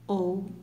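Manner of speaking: ouriço split as ou-ri-ço; separated into syllables. Shown as a demonstration. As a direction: say ouriço syllable by syllable, with a pause between each. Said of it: "foi separada assim". (ouriço separado em sílabas, ou-ri-ço)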